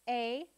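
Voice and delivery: P-A as a puff of p, then long ay; sounded out. Shown as a demonstration. Teacher sounding out a syllable, P-A in two sounds. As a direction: separate the two sounds of P-A, not letter names. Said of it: "Sound it out with me".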